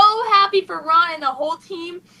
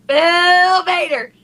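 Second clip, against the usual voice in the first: slow, emotional call of the name, voice catching; choked-up exclaim; 4 semitones higher, 4 dB louder, much slower than usual. Real, not acted. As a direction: cry out the name as the joy floods back. Overjoyed recalling seeing him.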